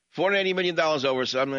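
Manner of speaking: fast, high, disbelieving; incredulous. Real, not acted. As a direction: rattle it off in disbelief. Host incredulous at the sum.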